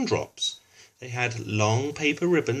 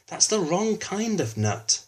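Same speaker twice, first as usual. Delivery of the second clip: slow, higher, exasperated teacher voice; 10 semitones higher than usual. A narrator's reading. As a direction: spell out the mistake slowly. Teacher corrects Finley.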